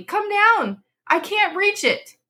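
very high panicked shouts; panicked shouting. A narrator's reading. Wife calling her husband down the stairs, very high panicked shout. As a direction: call him down in a frenzy.

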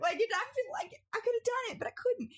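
high laughing protest. Real, not acted. Telling friend the snow looked smooth, high laughing protest. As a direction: laugh while insisting it looked fine.

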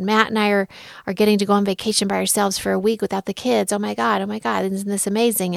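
fast, gushing retold news; excited texting. Texting a friend about a kid-free vacation, excited. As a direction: rattle off the big news, mildly giddy. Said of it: "big reaction from me on the text".

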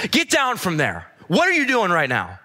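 high mock telling-off; retold yelling. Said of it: "she just started yelling at me".

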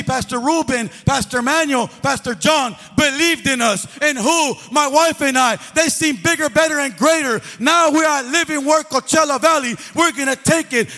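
rally the men in the room; fervent preaching. Acted. Closing rally, louder.

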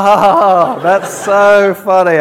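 a forced laugh to brush off his embarrassment. Retold or imitated. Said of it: "the only thing I can do is laugh this off".

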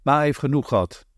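a hint of a scolding finger; warning. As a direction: daughter lightly warning about her mother's drinking. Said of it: "waarschuwt zij met geheven vinger".

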